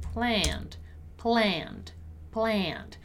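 "planned" repeated as one syllable, pland; isolated "planned" with falling tune and no E sound; silent E. Shown as a demonstration. Teacher drills the word planned for students, silent E. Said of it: "we don't pronounce the letter E".

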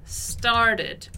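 very slow, careful English; drawn-out teacher demo; slow model reading. Shown as a demonstration. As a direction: spell it out slowly for learners. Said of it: "Ela diz o seguinte".

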